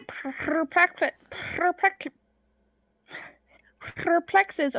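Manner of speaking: "perplexes" with a long trilled R; rolled R purr. Acted. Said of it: "it actually sounds like a purr".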